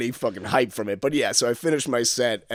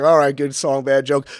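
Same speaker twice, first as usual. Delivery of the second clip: a louder mocking echo of the heckler's words; 4 dB louder than usual. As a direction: throw his line back at him. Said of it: "And I was like".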